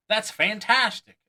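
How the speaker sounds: high, loud, slowed "That's fantastic!"; overenthusiastic. Retold or imitated. Magician over-praising a spectator, loud and slow. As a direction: gush at the spectator. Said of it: "Or worse".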